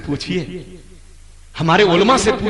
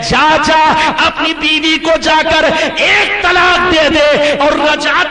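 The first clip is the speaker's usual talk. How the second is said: triumphant ruling; 5 semitones higher, 3 dB louder than usual. Acted. Prophet's joyful resolution.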